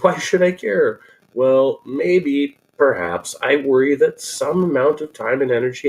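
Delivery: emphatic, lively reading of a written comment; comment read-aloud. Acted. Host reading a viewer's comment to the audience, emphatic read-aloud. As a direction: read it out with big swings of stress.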